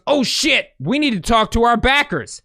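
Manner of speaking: mock panic. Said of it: "Syria sees this and goes".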